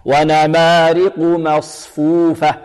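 slow recitation with thin m in مصفوفة; light, clean meem. Shown as a demonstration. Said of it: "لا بد من ترقيقها هكذا". (ترتيل بطيء بترقيق ميم مصفوفة)

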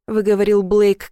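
ordinary delivery, nothing marked

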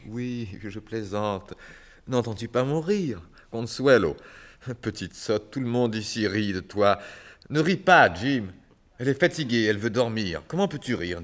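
high, loud, frantic; hysterical forced laughter. Acted. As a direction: cover the grief with wild cheer. Celui rit en désespoir. (gaieté hystérique et forcée)

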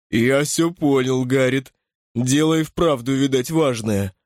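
lightly voiced grumbling bruiser; gruff big man. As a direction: grumble it like a hulking old pal. Tarp voiced again.

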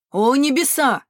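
loud, high exclamation; alarmed cry. A narrator's reading. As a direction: cry out to the heavens. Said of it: "крикнул кто-то другой". (испуганный возглас)

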